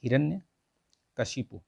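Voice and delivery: हिरण्यकशिपु drawn out slowly, every syllable clear; slow spelled-out word. Shown as a demonstration. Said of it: "ये जो कश्यप लिखा है ये नहीं होता है".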